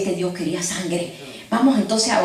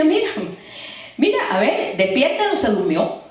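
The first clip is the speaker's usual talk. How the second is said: higher, teasing jeer; mocking taunt; 3 semitones higher than usual. Elijah taunting Baal's prophets, mocking. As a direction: taunt them like a sleeping god's fool. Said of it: "Elías podía burlarse de eso".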